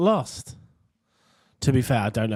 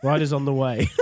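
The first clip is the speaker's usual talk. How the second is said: laughing repeat; 3 dB louder than usual. Real, not acted.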